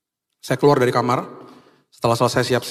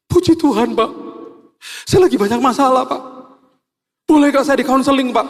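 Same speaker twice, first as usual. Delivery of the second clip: higher, louder imitated weepy plea; crying driver; 12 semitones higher, 4 dB louder than usual. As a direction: mimic a driver breaking down while asking for help. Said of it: "Terus dia tiba-tiba nangis". (sopir menangis minta konseling, suara tinggi)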